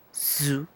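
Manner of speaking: "Su" with a buzzing Z like a bee. Shown as a demonstration. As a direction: buzz the first sound of "Su" like a mosquito. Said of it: "es más bien como una abeja".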